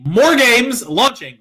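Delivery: loud, slow show announcement; announcer hype. Pretend. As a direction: drag it out like a hype man. Hyped announcement then quiet repeat.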